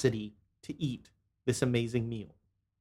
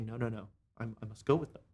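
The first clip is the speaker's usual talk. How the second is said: pleading; 6 semitones lower, 11 dB quieter, faster than usual. Acted. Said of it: "and you say".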